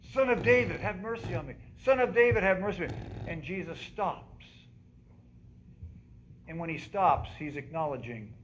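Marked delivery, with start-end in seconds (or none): 0.1-3.0 repeated high shout of a beggar; yelling. Retold or imitated. Blind beggar yelling to Jesus, repeated high cry. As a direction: keep yelling it over and over. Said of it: "And he kept yelling it".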